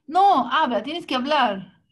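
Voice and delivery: mock psychologist scolding; insistent demand. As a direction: press him hard.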